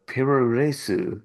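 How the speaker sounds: puroresu in Japanese syllables, pu-ro-re-su; Japanese pronunciation. Shown as a demonstration. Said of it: "is just pro wrestling".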